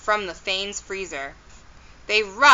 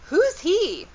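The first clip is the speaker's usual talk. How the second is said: high, swooping query; puzzled question; 10 semitones higher than usual. A narrator's reading. Nancy asks the mayor about Chuck Murphy, high and puzzled. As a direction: ask it high, baffled by the name. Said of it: "Nancy asked".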